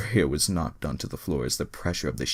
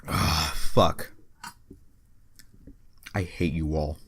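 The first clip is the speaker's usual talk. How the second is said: exasperated; 5 dB louder, slower than usual. Real, not acted. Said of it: "I hate the fact I had to read that".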